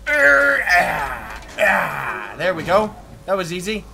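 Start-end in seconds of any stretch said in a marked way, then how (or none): 0.1-2.3 strained grunts. Pretend. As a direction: grunt as if heaving a lever. Straining at the lever.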